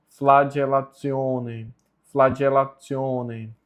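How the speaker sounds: "Flagellatione" said fla-dje-la-tsi-O-ne; correct Latin pronunciation. Shown as a demonstration. Teacher repeating the word for learners, firm careful model. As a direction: give "Flagellatione" a dj and a ts. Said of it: "a pronúncia correta é".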